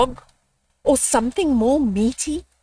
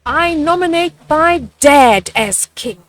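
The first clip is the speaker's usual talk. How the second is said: put-on higher, loud childlike call; little baboon; 5 semitones higher, 7 dB louder than usual. Little baboon proposing her dad to the animals, high and eager. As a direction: pipe up eagerly like a small child.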